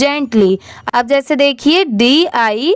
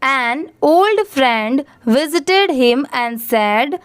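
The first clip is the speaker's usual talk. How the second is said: slow model reading; much slower than usual. Shown as a demonstration. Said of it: "मैं आपको पढ़ के दिखाती हूँ कैसे पढ़ना है".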